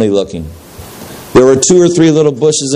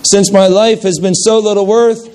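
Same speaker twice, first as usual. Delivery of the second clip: high, breaking plea; pleading through shame, pitched up; broken cry; 8 semitones higher than usual. A narrator's reading. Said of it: "he cried brokenly".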